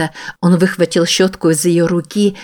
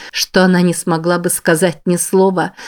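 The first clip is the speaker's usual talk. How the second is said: normal talking voice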